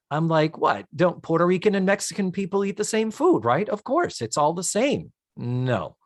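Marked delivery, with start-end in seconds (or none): 0.6-5.1 mocking a clueless American; clueless white guy voice. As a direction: dumb guy voice, higher. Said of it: "stupid, clueless American white guy".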